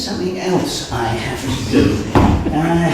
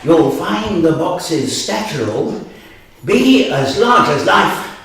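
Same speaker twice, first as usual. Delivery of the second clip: spell recitation. Acted. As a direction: chant a rhyming spell, rising to a bigger finish.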